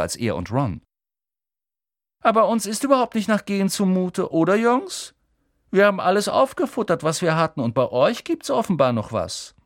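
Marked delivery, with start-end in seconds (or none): 2.2-9.5 high, louder, cold menace; threatening Malfoy. A narrator's reading. Malfoy threatens Harry about his parents, menacing. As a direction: warn him off with contempt.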